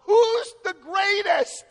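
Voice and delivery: loud, high, drawn-out mock challenge; arguing. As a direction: imitate squabbling disciples, stretching it out. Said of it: "What they were arguing about was".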